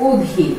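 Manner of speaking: অধীর with initial অ closed to a rounded o; closed vowel demo. Shown as a demonstration. Teacher giving a second example of closed pronunciation: অধীর as "odhir". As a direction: say অধীর as "odhir", low and falling. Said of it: "ধ্বনির সংবৃত উচ্চারণ".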